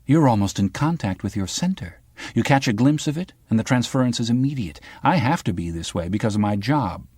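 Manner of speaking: a hint of a sharp young reporter; the girl from the news. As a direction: probe him like a pushy journalist.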